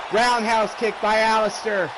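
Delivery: rapid live ringside play-by-play; wrestling commentator. Real, not acted. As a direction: call every move as it lands.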